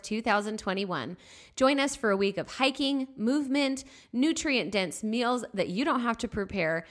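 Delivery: bright ad read, lifted. Acted. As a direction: pitch the retreat. Sponsor ad read.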